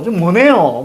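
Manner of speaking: "모네요" with n replacing the t sound; student's mispronunciation. Acted. Teacher imitates struggling student, "모네요" said with an n. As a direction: mimic a student saying "mo-ne-yo" for "mo-tae-yo". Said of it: "막 이렇게".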